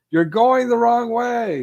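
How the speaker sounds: high, loud, stretched-out call; drawn-out mock shout from afar; imitated yelling. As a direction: yell it slowly as if across a highway. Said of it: "someone starts yelling to them".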